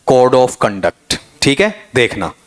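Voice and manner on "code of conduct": "Code of conduct" as commonly read, Code as "kohd"; everyday pronunciation. Shown as a demonstration. Teacher showing students how we usually read it, everyday pronunciation. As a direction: say "Code of conduct" with a plain long o in Code. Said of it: "बताओ क्या पढ़ते हैं अपन?".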